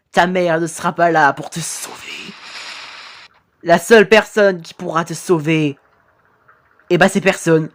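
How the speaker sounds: lightly voiced ghost, ominous and unhurried; a hint of a threatening phantom; menacing ghost. Ghost telling victim nobody will save him, lightly menacing.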